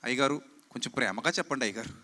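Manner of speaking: parroting a congregant who begs him to preach lovingly, soft and pleading; mock pleading. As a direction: imitate a meek church member begging sweetly. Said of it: "కొంతమంది అంటారు".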